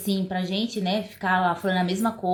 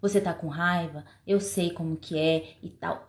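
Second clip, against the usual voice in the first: empathetic parent; 3 semitones lower, 4 dB quieter than usual. Shown as a demonstration. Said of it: "demonstrar empatia".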